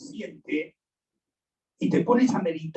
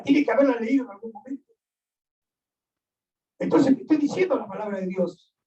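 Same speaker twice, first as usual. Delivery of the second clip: urgent preaching; 4 semitones higher, faster than usual. Real, not acted. Preacher urging the listener.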